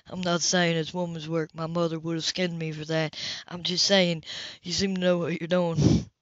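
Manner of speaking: quick teasing correction; lightly voiced Cam. Cam backs off his woman's work remark, low. Male character voice, lower.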